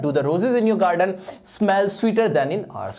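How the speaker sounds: slightly slow, clear reading of the fixed sentence; corrected sentence read out. Shown as a demonstration. Teacher reads the corrected exam sentence back to students. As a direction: read the corrected version out steadily. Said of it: "सिर्फ इसको बनाना था sweater".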